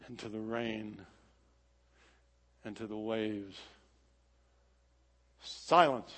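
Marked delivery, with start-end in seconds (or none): 5.4-6.1 mock commanding shout. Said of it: "Jesus shouts to the wind".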